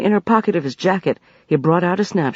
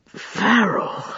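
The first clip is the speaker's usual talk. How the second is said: higher, glad calling cry; roar of delight; 5 semitones higher than usual. A narrator's reading. Tib Hassan recognizing his old friend, delighted cry. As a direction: greet him with joy. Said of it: "with a roar of delight".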